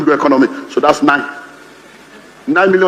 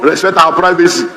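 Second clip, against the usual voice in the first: mock formal statement; 2 semitones lower than usual. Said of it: "Which privacy?".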